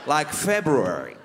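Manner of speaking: "February" slowly, every letter sounded, including the first r. Shown as a demonstration. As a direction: spell out "February" slowly, sounding both r's. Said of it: "pronouncing all the letters".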